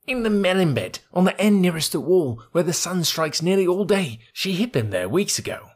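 high, chirpy bird voice, proud and excited; a tiny bird bragging; boastful little bird. Acted. Darzi answers.

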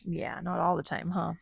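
quiet whispered agreement; whispered reply. Real, not acted. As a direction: answer in a hush. Echoes the child's whisper.

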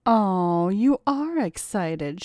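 slow, teasing coo. Acted. Chelsea cooing at her tied-up lover, slow and sweet. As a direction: coo at him, drawn out and sweet. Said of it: "she cooed".

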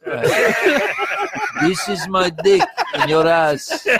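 laughing. Pretend. Voicing the gesture laughing.

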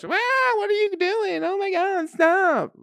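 a nagging hen squawking at the fighters; fussy hen. Retold or imitated. Hen begging the rooster to stop, in a high squawky voice. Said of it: "Just starts".

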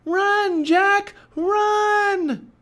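very high, loud, long-held yell; crying out. A narrator's reading. Annie sees pirates charging Jack, desperate cry. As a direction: yell each word in desperate warning. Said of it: "cried Annie".

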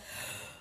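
soft wordless mock growl; mother's growl. A narrator's reading. Mother sets child on the bed, growling. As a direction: make a low-volume noise of exasperation. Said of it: "and she growled".

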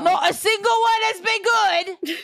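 loud, high, laughing outcry; laughing shout. Real, not acted. Co-host exclaims at the bad comments, laughing and loud. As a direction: blurt it out through a laugh.

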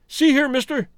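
high, loud sudden cry; prisoner's suspicious outcry; cried out. A narrator's reading. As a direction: call out sharply in suspicion. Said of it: "he cried".

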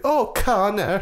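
very high, slow breathy swoon; swooning wife. Retold or imitated. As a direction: coo like a lovestruck wife. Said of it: "she's like".

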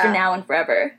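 low, laughing through the last words; half laughing, half crying finish; laughing fervor. Real, not acted. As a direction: crack up while declaring it. Fervent end of rant.

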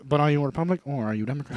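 lightly put-on British accent, quick; quick hint of British English. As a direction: rattle it off in a mock British accent. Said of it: "why was that accent British".

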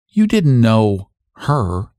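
slow, gentle question; a slow, kindly asked question to a grieving neighbor; gentler note. Acted. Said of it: "a gentler note in her voice".

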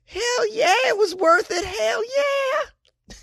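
very high, whooping reply; triumphant excitement. Acted. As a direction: squeal it and stretch the last word. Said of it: "this is his quote as responding".

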